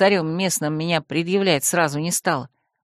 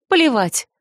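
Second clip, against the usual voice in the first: stubborn, higher dismissal; defiant; 5 semitones higher than usual. Acted. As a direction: toss it off stubbornly. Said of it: "Я упрямо вскинула голову". (упрямо)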